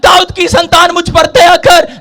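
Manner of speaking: drawn-out pleading cry for mercy; preacher acting a beggar's insistent cry; crying out loudly. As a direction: call out each phrase slowly, stretching the last word. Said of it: "वो जोर-जोर से चिल्ला रहे थे".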